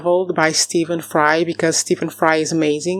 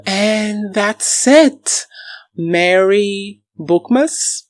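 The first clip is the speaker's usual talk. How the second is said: slow cheerful sign-off; 3 semitones higher, much slower than usual. Real, not acted.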